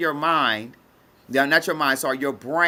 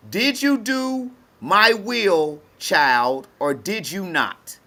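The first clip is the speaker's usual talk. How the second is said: voice of God judging; 3 semitones higher, much slower than usual. Retold or imitated. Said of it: "It's judging".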